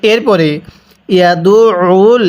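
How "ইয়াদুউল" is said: ইয়াদুউল with ain pressed in the throat. Shown as a demonstration. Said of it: "কীভাবে শিখব?". (ইয়াদুউল গলায় চাপ দিয়ে)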